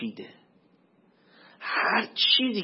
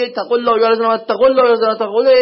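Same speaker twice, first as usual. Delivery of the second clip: rattled-off repetition; 5 semitones higher, 11 dB louder, much faster than usual. Retold or imitated. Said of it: "بعد هی خدا میگه".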